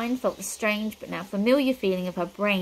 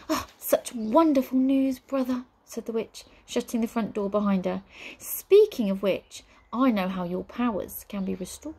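lava-like witch voice; 2 semitones higher than usual. Acted. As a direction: savour it like a sly witch. Witch, pleased and sly.

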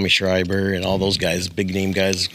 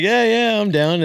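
eager yes; 11 semitones higher, slower than usual. Retold or imitated. Eagerly accepting invite to play.

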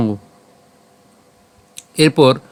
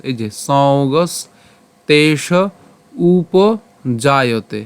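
measured Sanskrit chanting, syllable by syllable; slow verse recitation; much slower than usual. Shown as a demonstration. Teacher repeating the verse from the start for students, slow. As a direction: recite the line slowly, each word drawn out. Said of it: "আমি যদি প্রথমে আবার বলি".

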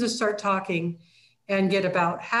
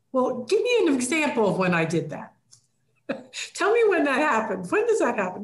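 mock challenging; 3 semitones higher than usual. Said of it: "rather than me saying".

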